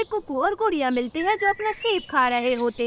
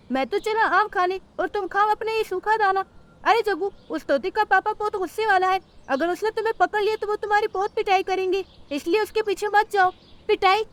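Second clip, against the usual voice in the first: higher cartoon voices, bully threatening and mocking; bully crow and scared sparrows; 5 semitones higher than usual. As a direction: push the little birds around. (धमकाता हुआ कौवा)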